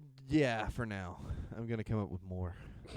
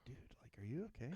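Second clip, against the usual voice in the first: whispered; 14 dB quieter, faster than usual. Retold or imitated. Retold quiet exchange.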